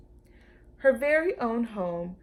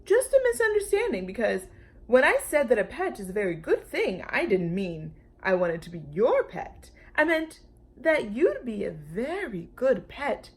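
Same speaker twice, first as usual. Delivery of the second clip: genial dinosaur; 3 semitones higher, 3 dB louder than usual. Acted. Brontosaurus correcting Lulu, lightly amused. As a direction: explain it away with easy good humour.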